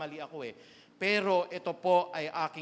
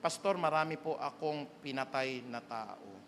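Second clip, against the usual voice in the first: confessing quietly; 6 semitones lower, 5 dB quieter than usual. Retold or imitated. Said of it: "Kapatid, ano ba yung kasalanan mo dati".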